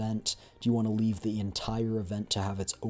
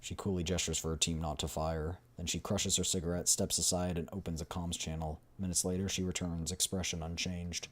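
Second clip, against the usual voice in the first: measured, dramatic game narrator; story narration; 4 semitones lower, 5 dB quieter than usual. A narrator's reading. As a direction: read the scene as a storyteller.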